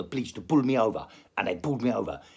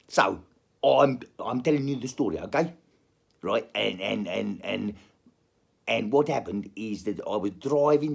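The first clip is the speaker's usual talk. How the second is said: put-on South African accent; comic South African accent. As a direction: tell it as a South African storyteller. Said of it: "let's go back to South African".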